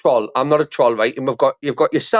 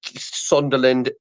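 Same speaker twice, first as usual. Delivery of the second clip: slow drawn-out question; much slower than usual. Acted.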